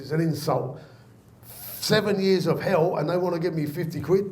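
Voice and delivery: indignant granddad. Retold or imitated. Granddad rejecting his fifty pound bonus, mock indignant. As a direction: act out an old man's indignation. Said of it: "my granddad went mental".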